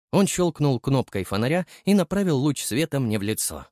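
ordinary delivery

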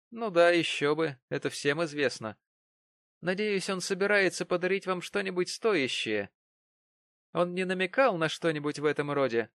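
sneer, hoping for money; greedy Jonas. A narrator's reading. Jonas sneers about his uncle's gifts.

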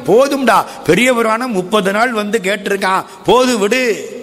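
a light hint of a benevolent god; god Shiva speaking. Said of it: "சிவபெருமான்".

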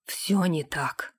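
low, slow voice of a smitten man; captain's answer. A narrator's reading. Captain answers the princess at her door, low and slow. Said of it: "ответил он, не раздумывая".

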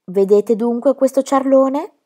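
a lightly voiced father caught out by his son; embarrassed. A narrator's reading. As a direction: laugh off the awkward moment. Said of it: "fece Germaine imbarazzato".

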